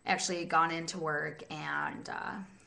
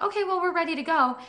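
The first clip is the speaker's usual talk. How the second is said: quoting the other group; 10 semitones higher, 5 dB louder, faster than usual. Retold or imitated. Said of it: "the other group was like".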